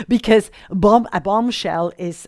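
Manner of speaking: English words in an American accent. Real, not acted. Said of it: "sorry mit meinem amerikanischen Akzent".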